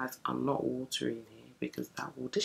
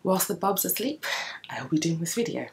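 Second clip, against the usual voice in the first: whisper; 3 semitones higher than usual. Real, not acted. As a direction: breathe the words, no voice at all. Whispering while baby sleeps.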